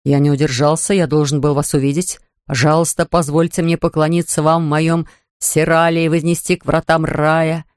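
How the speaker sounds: a lightly put-on Omar Sharif seducer; vague Omar Sharif accent. Cecil as a sheikh seducing Lady Mary, vague Omar Sharif accent. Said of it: "протянул Сесил с неопределённым акцентом в стиле Омара Шарифа".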